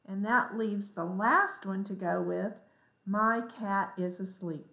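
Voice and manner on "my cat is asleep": "My cat is asleep." flat and falling; just state "My cat is asleep." as information; matter-of-fact read ending on a fall; plain statement. Shown as a demonstration. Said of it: "That is a statement".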